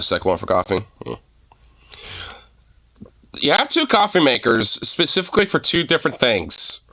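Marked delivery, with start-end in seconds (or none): 3.3-6.8 high-pitched disbelief; incredulous. Real, not acted. Streamer reacting to two coffee makers, incredulous. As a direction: question it in high, amazed disbelief.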